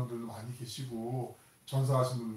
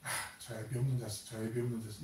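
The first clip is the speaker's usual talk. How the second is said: mocking taunt; 3 semitones lower, 7 dB quieter than usual. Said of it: "아픈 사람의 마음을 후벼파는".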